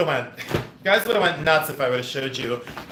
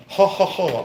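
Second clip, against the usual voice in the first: higher, mock hearty ho-ho; 5 semitones higher than usual. Shown as a demonstration. Showing Jeremy the laugh he should do, mock hearty. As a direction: show him the laugh to copy. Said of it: "like that".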